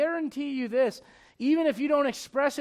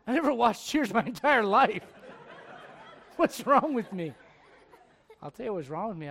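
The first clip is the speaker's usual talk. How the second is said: laughing at himself. Real, not acted.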